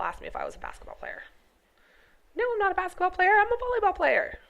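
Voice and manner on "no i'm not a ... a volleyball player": retold retort. Retold reply to basketball question.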